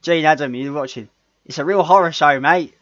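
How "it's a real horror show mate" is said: hammed-up English accent, higher and louder; cheeky mock English accent. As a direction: imitate a bad English accent. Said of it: "He tried to do the English accent".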